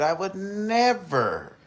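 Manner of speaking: mocking quote. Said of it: "He said".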